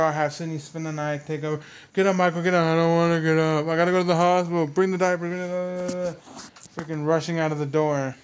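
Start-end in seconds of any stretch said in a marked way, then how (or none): 1.9-2.6 mock urgent call. Acted rush to hospital. 2.6-6.2 mock Michael panicking. Acted Michael rushing out.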